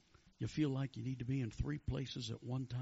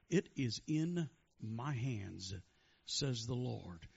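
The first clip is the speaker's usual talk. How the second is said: slow, weighted prophecy; prophetic pronouncement; 2 semitones lower, slower than usual. Real, not acted. Preacher speaking for the Lord to a worshipper, slow pronouncement. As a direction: deliver it slowly as God's word. Preacher delivers word from God.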